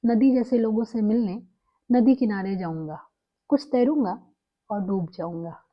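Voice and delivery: earnest first-time poetry reading; poem recitation. Shown as a demonstration. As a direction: read a Hindi poem aloud, letting each line settle. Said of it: "आज मैं उन्हीं का लिखा हुआ कुछ पढ़कर सुनाना चाहूँगी".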